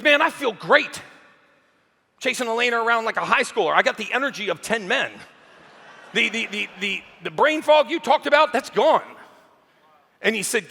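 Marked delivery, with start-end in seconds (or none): 0.0-9.0 higher, elated report; retold excitement. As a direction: gush about feeling reborn. Grant thrilled with results.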